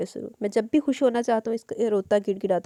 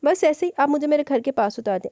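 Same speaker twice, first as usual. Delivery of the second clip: put-on sulky child; 6 semitones higher, 3 dB louder than usual. Child sulking in car.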